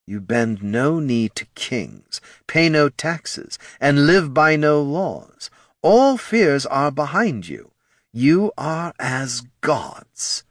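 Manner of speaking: slow, rising, grand lich; grand proclamation. A narrator's reading. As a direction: preach undeath's glory slowly. Lich's grand speech.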